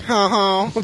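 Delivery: high-pitched mock laugh; put-on "ha ha"; imitating comedian's laugh. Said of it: "she's all like".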